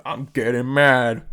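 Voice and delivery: slow, restrained mock anger about to boil over; mock rising anger. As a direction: hold it in, a slow simmer. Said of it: "starts screaming, like".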